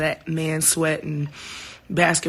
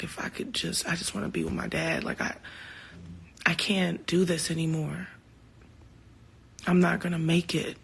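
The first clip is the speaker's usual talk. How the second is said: almost whispered, much softer, remembering hopelessness; hushed despair; 6 dB quieter than usual. Retold or imitated. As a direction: breathe the words out as if too tired to speak. Retelling darkest moment after father died.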